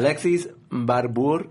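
slow, hammed-up Hispanic accent. Shown as a demonstration. Reading a viewer's name for laughs, Hispanic accent. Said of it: "say their name in a Hispanic accent".

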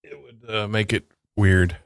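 talking around a wad of gum; chewing gum. Real, not acted. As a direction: gum in the mouth while speaking. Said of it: "I got gum in my mouth".

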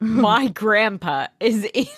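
mimicked heartthrob, breaking into laughter; lightly mocked Hollywood guy; Nate voice. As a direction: echo it, amused. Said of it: "that voice for Nate".

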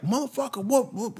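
high, hushed disbelief; mock outrage. Imagined car owner caught out.

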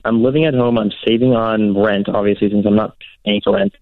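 broken-up phone line; radio breaking up. Real, not acted. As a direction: call cutting out. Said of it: "you're cutting out".

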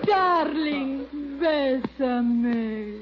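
slow, sultry Spanish plea; seductive. Acted. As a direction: purr it, drawn out slowly.

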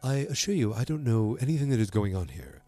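soft, measured character voice; understated impersonation, softly delivered; Harry Hamlin. Retold or imitated. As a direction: lightly imitate him, keeping it quiet. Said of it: "He's very much like".

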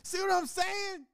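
teasing. Real, not acted. High slow teasing.

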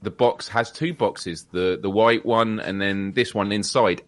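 slow, measured presenter imitation; calmly explain, taking it slowly. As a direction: imitate a calm, unhurried product presenter. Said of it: "she says very calmly".

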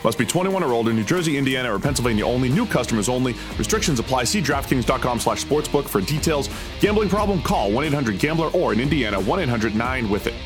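upbeat sponsor read over music; hard sell ad. Acted. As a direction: read it like a quick radio spot.

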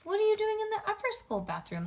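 high-pitched worried question; worried teacher. A narrator's reading. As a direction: ask it high, with concern for a child. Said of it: "Miss Aruba Tate looked worried".

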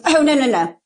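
imitated Southern boy insisting on his name; zany Southern waiter, lightly put on; Bob Earl. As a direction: correct someone in a light good old boy accent. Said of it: "I'm Southern boy".

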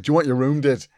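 a hint of thick Scottish accent; lightly imitated Scottish cleaning lady. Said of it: "very thick Scottish accent".

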